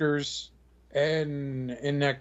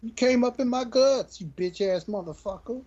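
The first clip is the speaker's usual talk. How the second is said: voicing the toy; 8 semitones higher than usual. Voicing the figure's face.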